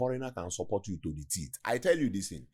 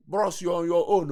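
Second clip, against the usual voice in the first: loud, higher, dismissive; mock dismissive girlfriend; 9 semitones higher, 7 dB louder than usual. Speaker voicing a Nigerian girl abandoning a dying man, loud and dismissive. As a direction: brush him off loudly.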